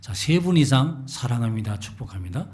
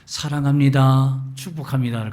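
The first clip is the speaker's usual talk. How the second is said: warm greeting demo; 6 dB louder than usual. Shown as a demonstration. Preacher demonstrating a friendly greeting to the congregation. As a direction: say it like you mean it. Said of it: "가르치기 시작했어요".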